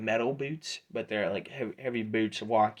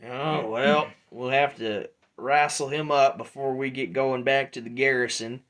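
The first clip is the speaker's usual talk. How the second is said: louder, sizing-up mercenary voice; approving Drudge; 3 semitones higher, 5 dB louder than usual. Acted. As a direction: size up the new fighters, louder.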